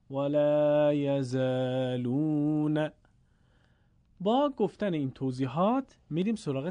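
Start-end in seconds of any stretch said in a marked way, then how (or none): 0.1-2.9 slow chanted reading; Quranic recitation. Shown as a demonstration. Teacher shows how all are read, drawn-out chant. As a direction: sustain the long vowels evenly.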